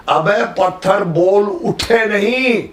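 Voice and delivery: scolding guru spells out पत्थर बोल उठे; stressed correction. Retold or imitated. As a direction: slowly hammer each word, ending on नहीं. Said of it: "इसीलिए stress बोलते हैं".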